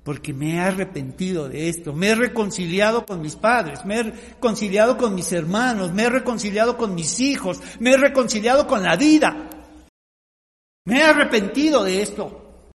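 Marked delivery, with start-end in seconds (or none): 1.9-12.7 building testimony. Acted. Testimony built to climax.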